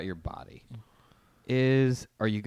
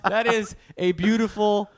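mock admiring; 9 semitones higher, 6 dB louder, slower than usual. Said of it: "You're like".

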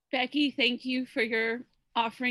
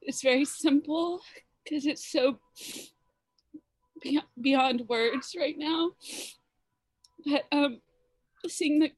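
crying while speaking; 2 semitones higher than usual. Real, not acted. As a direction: voice breaking with tears. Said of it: "And I'm sorry I'm crying".

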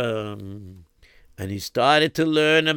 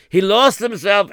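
emphatic; 8 semitones higher, 6 dB louder than usual. A narrator's reading.

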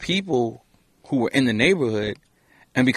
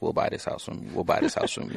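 whispered offer; 4 semitones lower, 7 dB quieter than usual. Retold or imitated. Retold buyers at the door.

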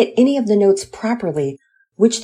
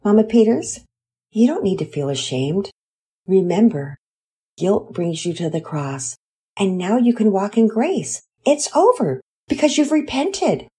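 sweetly; 4 semitones higher than usual. Acted. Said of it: "said sweetly".

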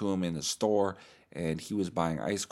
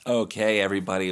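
loud, upbeat host launch; podcast host opener; 6 dB louder, faster than usual. Shown as a demonstration. Opening the fake podcast with a loud upbeat welcome. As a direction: burst in like a hyped host. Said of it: "let's get in the voice".

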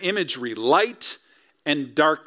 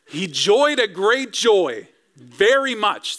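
joyful emphasis; 4 semitones higher, slower than usual. Shown as a demonstration. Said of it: "that's what I think about".

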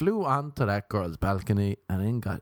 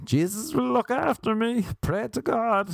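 mock pious voice; 11 semitones higher than usual. Mock pious voice, self-talk.

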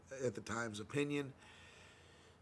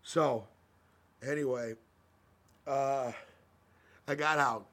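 blowing nose; 9 dB louder, slower than usual. Real, not acted. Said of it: "that was me blowing my nose".

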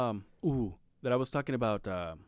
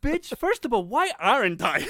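higher voice breaking into laughter, mock offended; mom's retort, laughing; 10 semitones higher, 7 dB louder than usual. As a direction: laugh through mom's indignant comeback. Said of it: "my mom is like".

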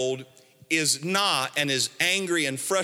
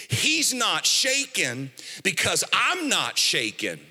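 building, emphatic sermon delivery, rising in pitch at the end; impassioned preaching; 3 semitones higher than usual. Real, not acted. Preacher challenging the congregation to trust God, impassioned. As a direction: drive each point home to the congregation.

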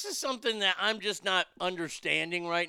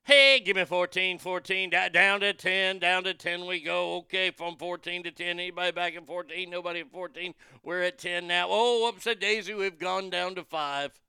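mock auctioneer patter, bursts of loud calls; a lightly voiced auctioneer losing the crowd; 3 dB louder than usual. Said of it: "like an auctioneer who's losing the battle".

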